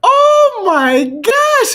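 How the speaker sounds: high, loud, drawn-out oh my gosh; crying out overwhelmed; overwhelmed shriek. Real, not acted. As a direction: scream it stretched out in shock. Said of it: "Sensory overload".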